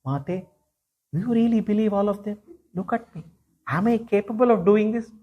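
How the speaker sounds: put-on a boy gently denying everything to his mother; innocent little Krishna. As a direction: play wide-eyed innocence, softly. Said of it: "with a very innocent face".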